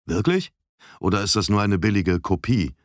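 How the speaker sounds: self-assured. Acted. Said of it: "fragte Paul selbstbewusst".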